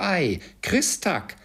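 put-on high, drawn-out boyish exclamation; boy's reply. A narrator's reading. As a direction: answer as an astonished young boy. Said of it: "versetzte der Knabe". (erstaunter kleiner Junge)

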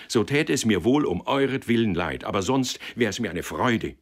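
earnest, emphatic self-justification; protesting, mildly heated rebuttal; defensive young man. Acted.

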